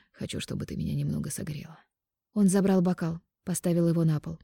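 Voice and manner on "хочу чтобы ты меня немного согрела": pillow talk. Acted. Mark seduces her.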